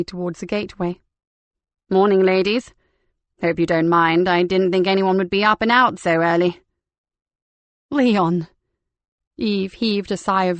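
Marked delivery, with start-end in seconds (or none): 1.9-6.6 a louder, hearty man's greeting; lightly voiced cheerful vicar hailing the ladies; cheery vicar Leon. Leon arrives, narrator voices him. 7.9-8.5 relieved exclamation with a falling close; Leon! called out, louder, falling at the end; Leon! as a startled, relieved shout of recognition; surprised recognition. Acted.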